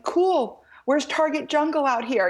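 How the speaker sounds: high, breezy clueless American mom; a lightly hammed-up carefree shopper; mock breezy. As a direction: play it airy and oblivious. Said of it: "And I'm like".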